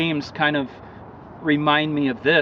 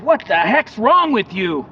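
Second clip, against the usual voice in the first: exasperated; 7 semitones higher, 6 dB louder than usual. Retold or imitated. Bridge guard confronts the man.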